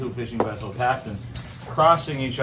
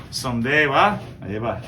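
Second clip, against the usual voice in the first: run-together Newfoundland small talk; Newfoundland dialect. Shown as a demonstration. Two Newfoundlanders agreeing about the weather, in dialect. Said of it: "another conversation that you might hear".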